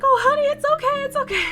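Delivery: high, loud cooing comfort; mom mode. Retold or imitated. Agent comforting the crying traveler, imitated mom mode. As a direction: imitate a fussing mom soothing a crier. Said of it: "turned on mom mode".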